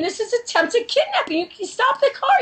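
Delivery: high-pitched mock scream of protest; retold screaming. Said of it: "So I start screaming".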